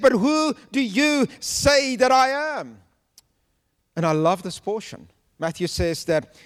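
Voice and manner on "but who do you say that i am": a hint of Jesus asking. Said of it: "He said".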